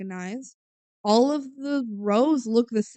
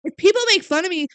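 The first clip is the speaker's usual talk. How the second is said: high, quick bratty blame; bratty accusation; 5 semitones higher, 5 dB louder than usual. Retold or imitated. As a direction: snap at mom like a teen. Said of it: "She says".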